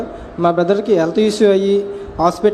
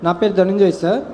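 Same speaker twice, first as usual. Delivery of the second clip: speaking up. Real, not acted. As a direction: still shy but clearer now. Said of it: "గట్టిగా, గట్టిగా మాట్లాడు". (కొంచెం గట్టిగా, ధైర్యంగా)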